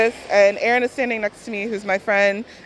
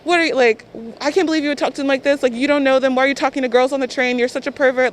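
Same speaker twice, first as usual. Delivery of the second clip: mock berating; 4 semitones higher, faster than usual. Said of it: "she starts berating him in Korean".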